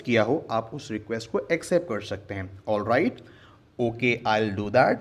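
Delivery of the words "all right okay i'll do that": slow, lower review reading; slower recap. Shown as a demonstration. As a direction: repeat it slowly as a recap. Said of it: "ये अलग-अलग वेज हैं".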